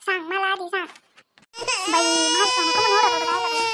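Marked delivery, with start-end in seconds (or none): 1.9-3.6 put-on loud, anxious cry over her baby; distressed cry. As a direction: call out in fear for the child. Mother hears baby crying. (घाबरलेल्या आवाजात ओरडणे)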